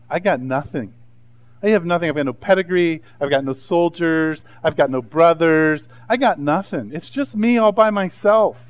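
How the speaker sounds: mild self-pitying list of complaints; mock whining. Preacher paraphrasing Gideon's excuses to God, mock whining. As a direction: lightly whine it, lifting at the very end. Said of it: "the whining, which continues".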